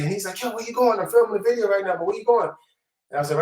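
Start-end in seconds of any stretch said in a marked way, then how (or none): 0.4-2.5 excited greeting. Retold or imitated. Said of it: "he went crazy".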